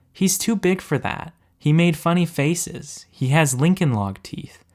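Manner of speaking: put-on a little boy telling his father, matter-of-fact; child voice. A narrator's reading. Child Tim voiced by narrator.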